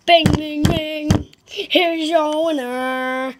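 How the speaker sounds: ring announcer. Pretend.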